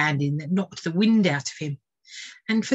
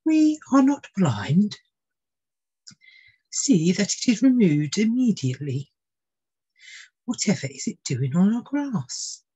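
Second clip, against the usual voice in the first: haughty queen; 3 semitones higher, 3 dB louder than usual. Acted. Queen ordering the bird removed, imperious.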